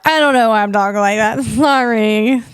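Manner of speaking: quick, giggly self-conscious aside; real amused laughter breaking through; laughing at herself. Real, not acted. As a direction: laugh it off, a little embarrassed.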